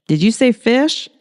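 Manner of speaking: can't believe the word fish; incredulous reporter. Acted. Hannah incredulous.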